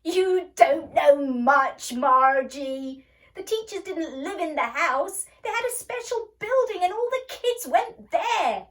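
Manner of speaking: loud, high, slow boy's mocking laughter-speech; laughing scream. A narrator's reading. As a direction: hoot at her ignorance. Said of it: "Tommy screamed with laughter".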